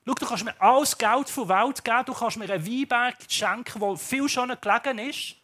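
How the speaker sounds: lightly voiced stubborn vineyard owner; Naboth refusing. Naboth to the king, firmly refusing to sell. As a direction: insist firmly, won't sell.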